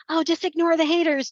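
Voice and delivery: mocking quote. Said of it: "when people say".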